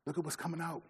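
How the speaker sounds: father softly correcting his son; gentle dad. Retold or imitated. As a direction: quietly point the son to his heart. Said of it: "I tell my son".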